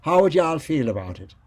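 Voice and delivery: light Irish lilt; Irish accent. Retold or imitated. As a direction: talk as if you were from Ireland. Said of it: "talk as if I were from Ireland".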